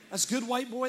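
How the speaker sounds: mock congregation yell. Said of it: "You can yell that".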